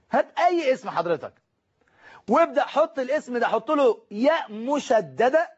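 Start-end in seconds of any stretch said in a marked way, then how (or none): 4.1-5.5 ياء مشددة drawn out slowly; slow emphasis on ياء مشددة; stressed doubled ya. Shown as a demonstration. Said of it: "بس لازم تكون مشددة".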